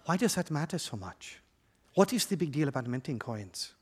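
soft, put-on Black Panther African accent; hushed mock Black Panther accent. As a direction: imitate a Black Panther Wakandan accent, quietly. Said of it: "in that Black Panther accent of yours".

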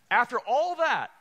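loud, stressed BUT the Lord; preacher raising his voice to rouse the room. Acted.

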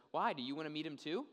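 understated sarcastic question; lightly acted sarcasm. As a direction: needle them with feigned innocence. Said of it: "in one of the most sarcastic".

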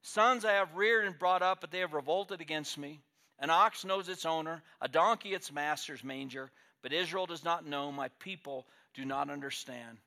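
booming divine proclamation; voice of God. Acted. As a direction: thunder it like God calling heaven to witness. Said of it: "And he says".

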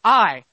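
a strong, drawn-out "I" standing alone; stress on I. Shown as a demonstration. Preacher showing who went to work, emphatic "I". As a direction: land on "I" and hold it. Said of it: "so the idea in that sentence".

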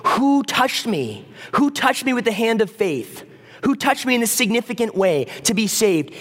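mean every word, scanning the crowd; searching intently. Retold or imitated. Jesus seeking the woman of faith, intent and searching. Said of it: "he's looking over and over, searching".

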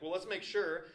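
acted over-the-top enthusiasm, no filter; super excited. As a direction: burst out with passionate exaggeration. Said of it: "super excited".

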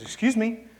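high-pitched comic frog voice; funny voice. Acted. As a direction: pipe up in a funny little high voice. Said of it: "the frog looks at him and says".

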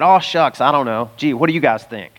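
lightly voiced folksy uncertainty; a touch of mock deference, as if unsure of himself; unsure aw-shucks. Preacher imitating a religious figure with no authority, mildly unsure. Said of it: "He didn't talk like that".

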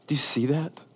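intimate whispered question; hushed aside to the room. Real, not acted. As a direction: lean in and whisper it. Preacher whispers to congregation.

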